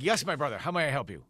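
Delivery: a hint of a low, polite clerk; lightly imitated gas station clerk; lightly voiced clerk. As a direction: greet him like a mild mock attendant. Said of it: "he's like".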